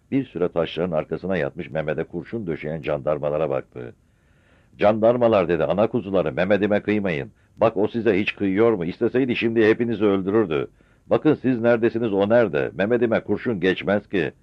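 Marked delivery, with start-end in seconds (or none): 4.8-5.5 loud call to the gendarmes. Acted. Old mother calling out to gendarmes, loud. 5.6-14.3 put-on old mother pleading, raised voice. Mother pleads with gendarmes to spare her son.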